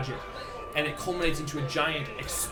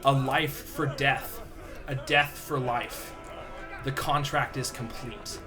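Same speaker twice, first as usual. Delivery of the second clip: deep echoing underworld god; slower than usual. Acted. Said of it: "you hear a deep voice echo through the chamber".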